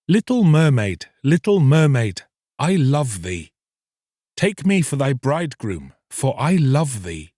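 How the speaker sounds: put-on young fisherman's plea. Fisherman calls to the mermaid, pleading. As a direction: call out to her tenderly.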